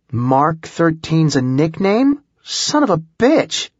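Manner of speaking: rising to a high excited outburst. A narrator's reading. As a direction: realize it and burst out. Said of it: "Holly was excited".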